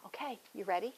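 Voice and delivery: whisper. Real, not acted. Quietly checking in with kids.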